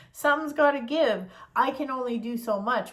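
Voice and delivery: universe talking. Pretend.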